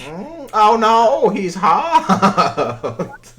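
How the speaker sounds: mock swooning. Mock swooning at old man.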